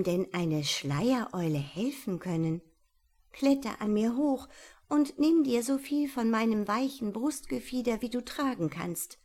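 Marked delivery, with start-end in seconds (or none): 3.3-9.2 owl instructing. Acted. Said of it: "trug ihm die Eule nun auf".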